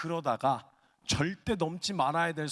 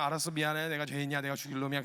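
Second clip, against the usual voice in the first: low, monotone giving in; resigned apology; 5 semitones lower, faster than usual. Acted. Husband avoiding a fight with wife, resigned low monotone. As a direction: recite the apology to end the fight. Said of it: "말로 웬만하면 싸우지 않고 그냥".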